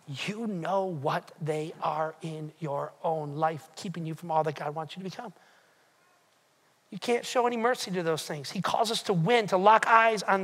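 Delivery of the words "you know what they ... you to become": intimate low aside. Acted.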